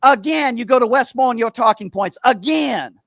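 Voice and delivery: Steven caller voice. Acted. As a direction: sneer every again like a talking-point parrot. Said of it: "I'm gonna be Steven".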